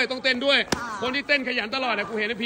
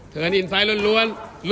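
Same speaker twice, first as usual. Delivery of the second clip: slow repeat; much slower than usual. Shown as a demonstration.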